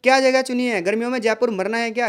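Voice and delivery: scoffing objection to the choice; mild scoffing disagreement; disagreeing. Shown as a demonstration. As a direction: push back, unimpressed. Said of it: "ये भी असहमति दिखाया जा रहा है".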